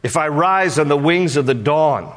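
measured psalm reading, each phrase set apart; scripture recitation. A narrator's reading. Preacher reading David's psalm to the congregation, measured recitation. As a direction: recite it solemnly with long pauses between phrases.

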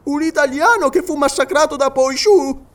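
high, held-up questioning voice; Paganel questioning. Acted. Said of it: "chiese Paganel".

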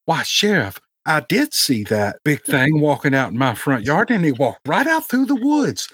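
a hint of a folksy old lady telling what she saw; old Southern woman. Old woman tells the sheriff what she saw, lightly voiced Southern old lady. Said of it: "they have to go interview some old woman".

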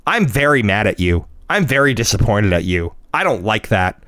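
mild, low-pitched imitation of indignation; mad child, imitated. Son tells dad off, mildly imitated indignation. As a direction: scold like a stern little kid, understated. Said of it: "He'll be mad about something".

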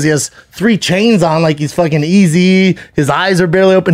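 mock a friend in a lifted pitch; retold ribbing from a buddy; clowning. Comic friends roasting his video from bed, clowning. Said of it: "his boys who are comics are clown like".

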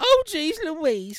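loud, high, drawn-out Southern exclamation; hammed-up Southern cry. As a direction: imitate a Southern diner waitress, big and slow. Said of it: "do that voice some more".

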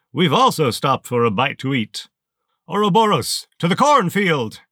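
high, loud, sneering villain voice; towering armored colonel greeting a lieutenant, high and loud; menacing colonel. Acted. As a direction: let it cut like a rusty saw blade. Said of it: "like a rusty saw blade slicing through your spine".

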